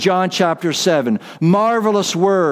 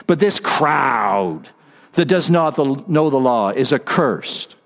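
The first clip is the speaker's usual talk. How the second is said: demeaning; 4 semitones lower than usual. Retold or imitated. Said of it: "in that demeaning voice they spoke".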